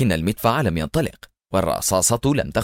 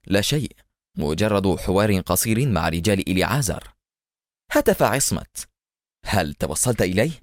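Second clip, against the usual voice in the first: exhausted; 2 semitones lower than usual. Acted. Adham tired, telling Esmat what happened, exhausted. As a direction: speak worn out, slumped. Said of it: "وهو يقول في إرهاق واضح".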